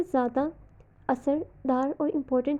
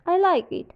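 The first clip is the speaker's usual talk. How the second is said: "I like it" dipping then rising, doubtful; fall-rise intonation; 3 semitones higher, much slower than usual. Shown as a demonstration. Teacher demos partial agreement with fall-rise tune. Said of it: "fall rise intonation".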